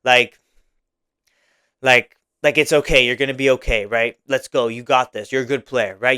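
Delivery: calm him down like a friend would; gentle reassurance. Retold or imitated. Coach comforting a self-conscious player after a mistake, gentle. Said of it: "that's the type of guy you wanna be a little bit more soft".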